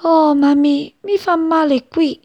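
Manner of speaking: small, high, hurting chick; chirping chick. A narrator's reading. Chick tells its mother the string hurts, high peep. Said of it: "pigolò C P".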